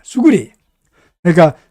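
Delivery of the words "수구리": high sharp Gyeongsang dialect call; Gyeongsang dialect shout. Shown as a demonstration. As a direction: shout the dialect word like an order. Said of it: "경상도 사투리로 엎드려라는 말입니다".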